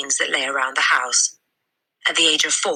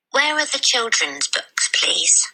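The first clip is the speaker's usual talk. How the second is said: put-on high, slow, careful child's voice; polite little girl; 9 semitones higher, slower than usual. Matilda asks the librarian where the children's books are, high and polite. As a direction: ask politely like a tiny girl. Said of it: "Matilda asked".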